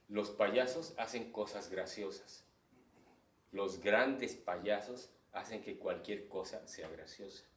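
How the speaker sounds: slow, deliberate quote; quoting Buster Keaton. Retold or imitated. Teacher quoting Buster Keaton, slow and measured. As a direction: savor the line like a maxim. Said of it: "Porque él decía".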